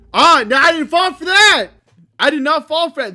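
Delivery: loud, high relieved yelling; triumphant shout. Real, not acted. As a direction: gloat over dodging the scare. Survives an expected jump scare.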